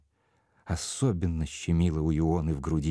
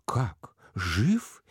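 higher-pitched astonished questions; amazed; 4 semitones higher than usual. A narrator's reading. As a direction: react in amazement, voice jumping up. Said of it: "изумилась дама". (изумлённо, повысив голос)

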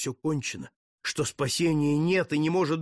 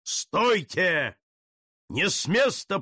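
thunderous command; 5 semitones higher, slower than usual. Acted. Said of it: "громовой голос покрыл голоса певших".

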